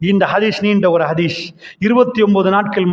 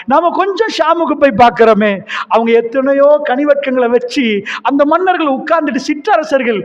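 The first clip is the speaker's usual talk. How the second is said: grieving plea; 4 semitones higher than usual. Acted. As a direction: plead through tears for him. Umar weeping, questioning the Prophet. (உயர்ந்த குரலில் அழுகையுடன் கெஞ்சல்)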